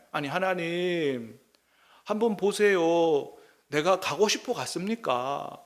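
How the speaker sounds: slow, pleading complaint to God; protesting prayer. Acted. Moses arguing with God in prayer, slow and aggrieved. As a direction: argue with God, drawn out. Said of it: "막 따지듯이 지금 기도하는 거죠".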